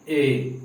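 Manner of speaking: ए held a little long; drawn-out vowel. Shown as a demonstration. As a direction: stretch the ए sound slightly. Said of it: "थोड़ा लंबा खींचना पड़ता है ए". (ए को थोड़ा लंबा खींचकर बोलें)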